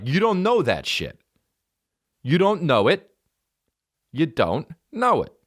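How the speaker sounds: high-pitched mock exasperation; exasperated protest. Comic telling off his know-it-all opener, high exasperation. Retold argument with opinionated opener.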